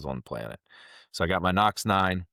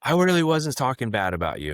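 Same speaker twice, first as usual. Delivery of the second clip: imitating a distraught backpedaler, pitched up; 6 semitones higher, 4 dB louder than usual. Customer backpedaling to the company president, distraught. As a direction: plead innocence in a higher mock-upset voice. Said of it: "he was so distraught".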